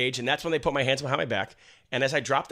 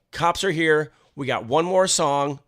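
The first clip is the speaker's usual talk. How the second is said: raised voice, as if into a mic; stage announcement; 4 semitones higher, 5 dB louder, slower than usual. Retold or imitated. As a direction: announce it to the whole crowd. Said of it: "I'm on the mic".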